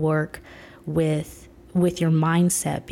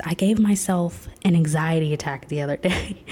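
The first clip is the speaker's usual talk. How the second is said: a laugh breaking into the confession. Real, not acted. Telling viewers about her anxiety attack, half laughing. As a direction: admit it with a sheepish laugh. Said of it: "repeats the line".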